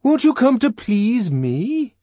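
loud, high pleading question; wheedling shout through a door; bellowed wheedling. A narrator's reading. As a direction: bellow it coaxingly, drawing it out. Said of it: "Bernard bellowingly wheedled".

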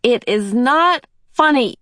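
put-on small boy's cross outburst; childish indignation. A narrator's reading. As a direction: stamp your foot in the voice. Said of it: "gave a childish stamp of his foot".

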